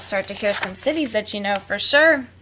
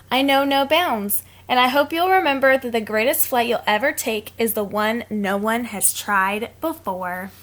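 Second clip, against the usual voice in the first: put-on reading to children; 3 dB louder than usual. A narrator's reading. Reads picture book aloud.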